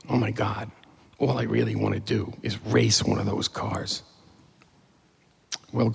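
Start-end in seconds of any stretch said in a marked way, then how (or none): 0.1-4.0 softer, lower musing; quiet thought. Retold or imitated. Boy in the racing pit thinking to himself, quiet musing. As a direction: think it aloud, hushed. Private wistful thought, retold.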